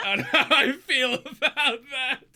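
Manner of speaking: high, loud laughing protest. Real, not acted. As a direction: crack up through the words. Laughing at own silly performance.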